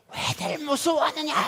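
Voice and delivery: Jesus calling over the storm, high and carrying. Acted. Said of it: "고함을 지르며 말씀하셨을 거예요".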